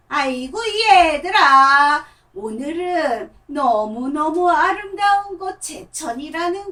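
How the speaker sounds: slow, loud, sing-song puppet greeting; a grandma puppet telling kids about Jecheon; puppet storyteller voice. Shown as a demonstration. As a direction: puppet introducing Jecheon to the children. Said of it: "그러면 보세요".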